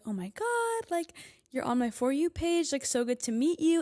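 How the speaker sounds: high-pitched starstruck fan impression; gushing fans. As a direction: gush like friends meeting a TikToker. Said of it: "they were like".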